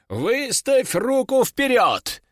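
slow, high order stressing руку; slow command. Acted. Master ordering the demon, slow and high. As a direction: give the order slowly, leaning on руку. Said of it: "приказал он".

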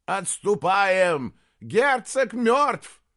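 loud, high, slow cry of alarm; shout. Acted. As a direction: yell it over the battle. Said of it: "закричал Аспитис". (громкий крик)

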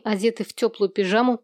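usual speaking voice

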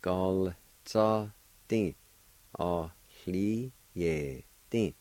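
very slow, spaced syllables. Shown as a demonstration. Teacher joining both parts for learners, slowly syllable by syllable.

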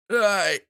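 short high "ow" of pain; high acted yelp. A narrator's reading. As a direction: yelp as the dart hits. Hit by a thrown dart.

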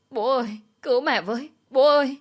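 high cry breaking into a loud shout; a child's panicked call rising to a scream; child's desperate scream. Acted. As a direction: scream for dad to save mum.

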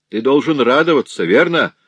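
loud, jeering question; mocking sneer. Вдова с насмешкой бросает сыну, язвительно. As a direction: sneer it at the son. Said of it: "с усмешкой сказала вдова сыну".

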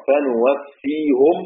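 فنوفيهم slow, opening on nun, ending -hum; فنوفيهُم بالنون ببطء; Rawh reading with nun. Shown as a demonstration. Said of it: "روح بيقرأ".

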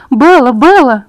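loud panicked calling of a name. A narrator's reading. Mother calls her daughter on the phone, loud and panicked. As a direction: call out in panic and fright. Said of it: "Именно таким голосом Рене окликала".

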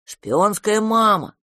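high, drawn-out call to mama; slow childish appeal; childlike monster. A narrator's reading. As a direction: coax like a big baby at bedtime. Monster calls mama at bedtime.

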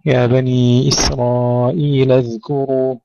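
measured recitation, no vowel after dhal in اذكروا; unbounced dhal. Shown as a demonstration. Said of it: "الذال أيضًا لا نقلقلها".

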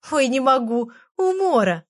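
лёгкое изображение хохота, голос выше; чуть изображая смех сквозь слова; сквозь хохот. Acted. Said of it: "хохотала Галка". (Галка хохочет, голос взлетает вверх)

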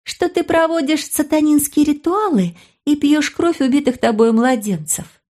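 put-on high girlish taunt. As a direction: throw the rumour at him, pitched high. Sister voiced taunting brother.

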